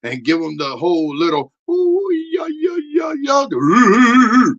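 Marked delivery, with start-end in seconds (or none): 1.7-4.5 high, loud puppet shouting a defiant rant. Acted. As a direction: rant as the cocky pep puppet.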